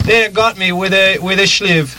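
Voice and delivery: hammed-up Mexican accent. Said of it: "How's my Mexican accent".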